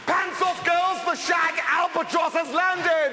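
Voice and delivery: high, slow booming arrival; grand announcement. Acted. Bursting in to impress the girls, booming announcement. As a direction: announce himself like a conquering hero.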